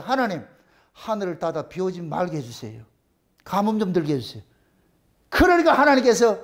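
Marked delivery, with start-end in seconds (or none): 0.0-4.4 soft, low pleading prayer; a hushed plea to God. Retold or imitated. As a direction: pray it quietly, head bowed. Elijah prays for drought.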